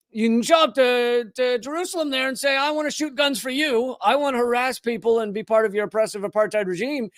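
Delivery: mock good old boy accent; lightly put-on Texan twang; Texan drawl. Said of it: "why I'm making everybody sound like, uh, T Boone Pickens".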